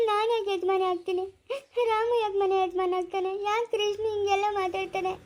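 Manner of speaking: weepy questions through tears; crying. Acted. Mother alone, distressed about her baby.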